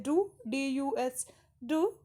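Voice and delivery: "डू" said apart, then spelt out slowly; pronunciation demo. Shown as a demonstration. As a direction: show how "डू" sounds, letter by letter. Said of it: "pronunciation जो होती है वो इस तरह से होती है".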